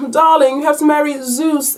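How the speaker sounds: insistent mother in a put-on English accent; mock English accent. Mom pressing daughter to marry Zeus, mock English accent. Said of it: "I can't do that accent".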